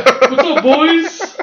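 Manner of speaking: high, loud chummy greeting, laughing; overly buddy-buddy, half laughing; fake friendly bro greeting. Mimicking the rival's friendly greeting.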